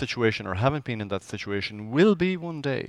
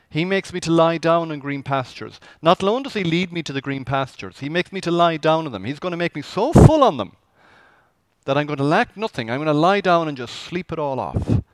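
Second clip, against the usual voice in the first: excited; 4 semitones higher, 6 dB louder than usual. Acted. Excited sermon expansion.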